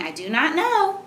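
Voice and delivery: high, lilting storybook reply; expressive model line. Shown as a demonstration. Mother checks child heard her reply, high and lilting. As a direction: swoop the pitch up on the reply. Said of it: "did you hear me saying".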